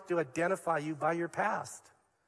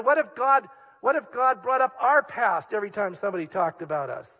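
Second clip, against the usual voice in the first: impassioned retelling; 3 semitones higher, 4 dB louder than usual. Retold or imitated. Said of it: "He choked up and he said".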